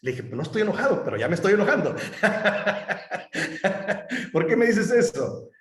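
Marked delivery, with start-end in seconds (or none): 0.2-2.0 "Pues no estoy enojado" pitched up with a laugh breaking in; playful mock-annoyed reply with laughter; laughing retort. Joking retort to son. 2.0-4.3 an airy rising laugh at his own joke; high unvoiced chuckle; breathy laugh. Real, not acted. 4.3-5.5 mock exasperation. Mock exasperated question to son.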